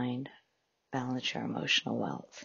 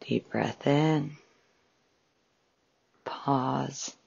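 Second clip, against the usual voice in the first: measured meditation guide with long pauses; guided meditation. Acted. Host guiding listeners through a breathing exercise, calm meditation voice. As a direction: calmly guide listeners into relaxation, phrase by phrase.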